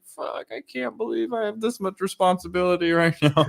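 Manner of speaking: half-laughing at his own panic; laughing disbelief. Retold or imitated. On the job site, overwhelmed by responsibility, laughing. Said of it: "I'm just like".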